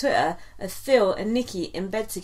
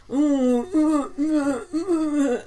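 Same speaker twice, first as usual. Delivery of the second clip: higher mock sobbing ooh; hammed-up crying noises; 5 semitones higher, much slower than usual. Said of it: "he went".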